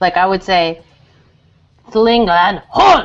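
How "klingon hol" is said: hard, loud, fully committed forceful shout. Showing how Klingon words should be said, yelled forcefully. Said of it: "you actually have to yell it and be really forceful when you say it".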